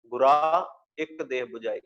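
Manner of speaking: ਗੁਰਾ said with no nasal ending, then the line read evenly; non-nasal reading. Shown as a demonstration. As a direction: recite with ਗੁਰਾ kept free of nasal sound. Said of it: "ਨਾਸਕੀ ਉਚਾਰਨ ਜਿਹੜਾ ਹੈ ਉਹ ਨਹੀਂ ਕਰਨਾ".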